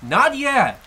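loud, pleading cry to stop; urgent shout. Acted. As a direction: call out sharply to stop them. Stops him from leaving.

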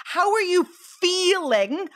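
"feeling" stretched out and emphasized; stress on FEELING. Real, not acted. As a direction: lean into FEELING, holding it long. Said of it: "I'm stressing the word feeling".

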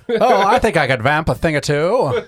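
put-on suave old-time announcer; Bill's smooth radio voice. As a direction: play the confident fill-in host. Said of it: "Bill voiced".

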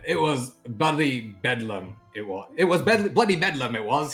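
high, loud Cockney bloke stumbling over his words; Cockney rogue, a bit flustered; Cockney accent. Acted. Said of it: "He's Cockney now".

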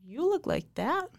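high, startled disbelief; surprised. Retold or imitated. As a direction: blurt it out in shock. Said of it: "I was like".

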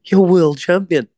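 high, slow, stunned voice of his mate; imitating his mate. Mate Spider telling the boxer he's world champion, high, slow and awed. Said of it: "he said".

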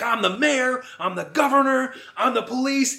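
high, mounting villain brag; hammed-up megalomaniac declaration; villain's boast. Acts villain boasting of power.

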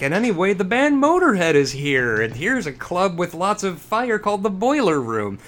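mock movie pitch. Parodies the film's breezy plot jumps.

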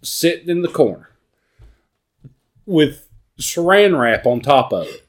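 high, loud gleeful scheming; gleeful host voice. Retold or imitated. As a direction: announce it like a treat. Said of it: "He's like".

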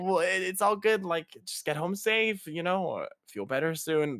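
put-on calm a drunk friend down gently; high sing-song comforting; reassuring. Friends soothing the drunk boy.

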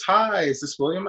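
imitating phone girl. Caller imitated in retold story.

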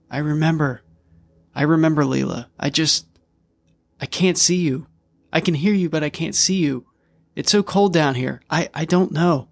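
a dead brother calling from the cold dark; lightly whimpered plea from the brother to his sister; whimpering. Acted. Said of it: "he whimpered".

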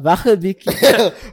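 Afrikaans phrase. Pretend. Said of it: "in the accent".

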